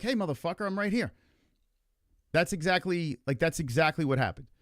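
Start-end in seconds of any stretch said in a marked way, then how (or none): 0.0-1.1 mock indignant call-out. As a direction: protest at being talked over at dinner. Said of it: "Wouldn't you be like".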